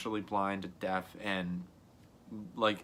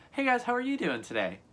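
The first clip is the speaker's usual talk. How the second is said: much higher, bright "Hey, guys"; happy greeting; 13 semitones higher than usual. Shown as a demonstration. Greeting viewers when happy, bubbly. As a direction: beam it out, pitched way up. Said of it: "if I'm happy".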